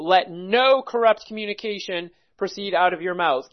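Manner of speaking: NO picked out from the sentence; emphatic NO, the rest falling away; stress on NO. Shown as a demonstration. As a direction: lean on the word no. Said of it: "clearly the emphasis would be no".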